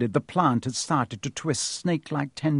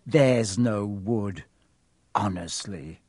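lower, slow mocking echo; mocking Hermione; 4 semitones lower, slower than usual. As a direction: mimic her panic scornfully. Ron mocks Hermione's panic.

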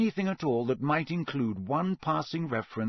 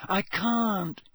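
higher, strained protest; panting; 7 semitones higher than usual. A narrator's reading. Harry struggling not to sink, panting. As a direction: gasp it while struggling to stay afloat. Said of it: "Harry panted".

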